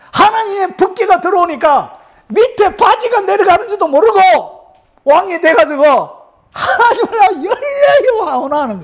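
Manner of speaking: high, fervent shouting delivery; fervent acclamation. Retold or imitated. Preacher retells David dancing before God, fervent and high. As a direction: preach it at a high, exultant pitch.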